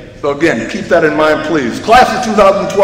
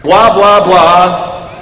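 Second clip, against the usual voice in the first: صوت ساخر من الخطب المملة; much slower than usual. Acted. Mock droning graduation speech filler.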